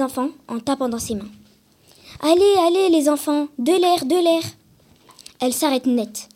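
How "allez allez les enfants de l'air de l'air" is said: high, loud bossy calling; shooing call. Acted. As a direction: clear the crowd with a brisk raised voice. Principal shoos children away.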